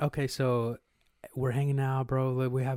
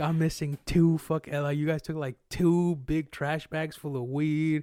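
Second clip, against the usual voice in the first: higher and louder, slow indignant whine; mock outraged complaint; 4 semitones higher, 5 dB louder, slower than usual. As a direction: play up his disbelief. Imitating the robbed man's complaint.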